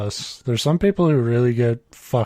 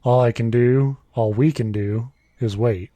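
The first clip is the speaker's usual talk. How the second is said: even, measured reading voice; story read aloud. A narrator's reading. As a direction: read the written story out plainly. Reads a written story aloud.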